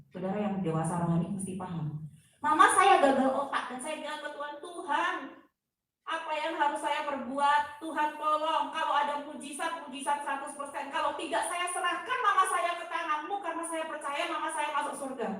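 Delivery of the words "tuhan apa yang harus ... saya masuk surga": higher-pitched plea to God; pleading prayer, retold. Daughter asks God for a miracle for her mother, pleading. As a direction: retell an urgent, helpless prayer.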